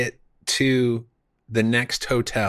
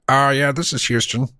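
walkie-talkie voice; 3 semitones higher, 3 dB louder than usual. Retold or imitated. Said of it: "we're talking to Ground Control".

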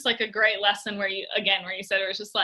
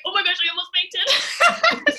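laughing; 7 semitones higher, slower than usual. Retold or imitated. Retelling reply to coach.

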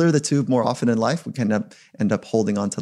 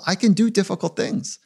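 confident self-talk; 8 semitones higher than usual. Retold or imitated. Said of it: "earn the right to say to yourself".

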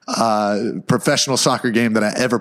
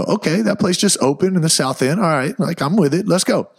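higher-pitched, game reply to a plan; acted eager agreement; 6 semitones higher than usual. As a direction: go along with it, voice lifted. Acting out giving in to wife's plan.

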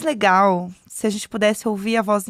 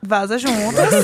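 laughing; 2 semitones lower, much slower than usual. Real, not acted. Laughing at own pun.

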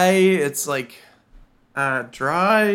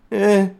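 hesitant laugh; 3 semitones higher than usual. Retold or imitated. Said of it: "really strange, like, hesitant laugh".

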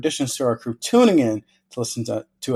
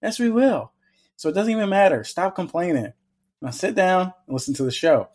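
mock scolding; 6 semitones higher than usual. Host scolds listeners playfully.

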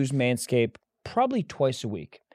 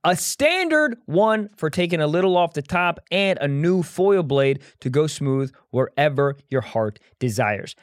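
sponsor ad read; 2 semitones higher than usual. Acted. Reads the sponsor ad.

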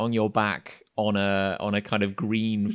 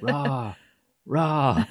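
war chant. Acted. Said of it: "pumping their spears in the air, going like".

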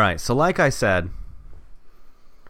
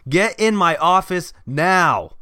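angry boss shout; 4 semitones higher, slower than usual. Acted. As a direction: bellow it slowly like an angry boss. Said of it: "his boss scream".

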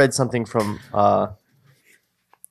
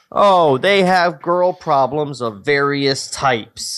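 mock dismissive; slower than usual. Mocking their own old script.

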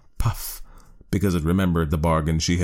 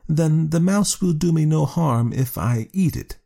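sly cat; 10 semitones higher than usual. A narrator's reading. Cat voiced in story.

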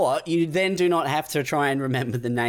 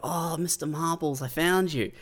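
fake relief; 4 semitones higher, 3 dB quieter than usual. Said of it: "you go".

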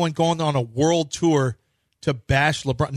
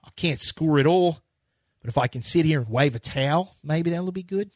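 put-on Australian accent. Co-host mimicking Landale, light Australian accent. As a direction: play a loose Australian big man. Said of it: "Jock Landale accent".

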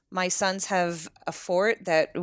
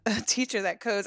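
giggling through the words; can't stop giggling; laughing; 3 semitones higher than usual. Real, not acted. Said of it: "I can't stop laughing".

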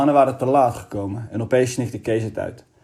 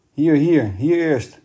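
higher and loud, urgent directions; shouting; 4 semitones higher, 4 dB louder, much slower than usual. A narrator's reading. Kees shouts at the man on the plank, urgent. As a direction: yell at the rescuer to take Eddy first. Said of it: "schreeuwde Kees".

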